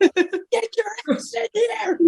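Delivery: mock call-out yell. Fighter calling out Marquez after his win, hammed-up high yell. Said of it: "be like".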